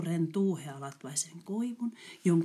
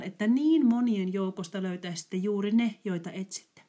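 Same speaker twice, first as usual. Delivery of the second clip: pitying; 3 semitones higher, 5 dB louder than usual. Acted. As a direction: shake your head over the poor children. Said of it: "sanoivat he surkutellen". (säälivä, surkutteleva ääni)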